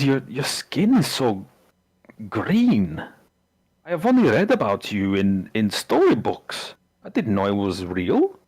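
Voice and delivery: lightly acted wonder, drawn-out words; halting awe with lilting swoops; amazed villager. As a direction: marvel slowly at a storybook creature. Game master voices amazed villager.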